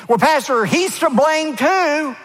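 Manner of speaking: whiny protesting church member, slow at the end; mock objector. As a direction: play the listener pushing back on the pastor. Imagined listener objecting to pastor.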